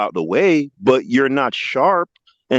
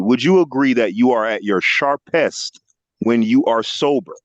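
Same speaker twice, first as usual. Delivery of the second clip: each word set apart slowly; slow it down and spell the question out; slow, deliberate repeat; 2 semitones lower, slower than usual. Shown as a demonstration. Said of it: "this is what I asked you".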